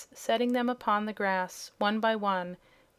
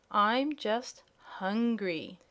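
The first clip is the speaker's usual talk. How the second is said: yawning kitten; much slower than usual. Acted.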